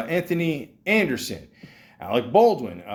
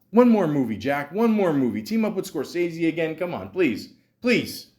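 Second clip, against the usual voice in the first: mock pleading; 5 semitones higher than usual. Begging absent actor to return.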